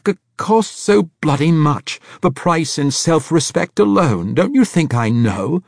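high, loud stammering plea; pleading. A narrator's reading. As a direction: plead with a trembling stutter. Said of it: "Braithwaite pleaded".

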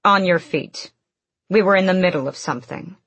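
brisk fast command; ordering. Acted. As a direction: snap the order out quickly. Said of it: "Manon ordered".

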